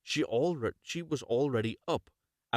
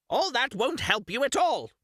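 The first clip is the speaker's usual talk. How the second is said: much higher, louder witch voice; old witch; 14 semitones higher, 5 dB louder than usual. Acted. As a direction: shut the weeping girl up. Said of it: "said the old woman".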